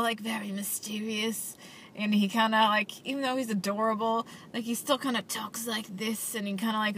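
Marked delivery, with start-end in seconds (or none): 0.0-1.6 whispered, hushed villain voice; mysterious villain whisper. Retold or imitated. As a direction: breathe it like a shadowy villain. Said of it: "He's talking like a villain the whole time".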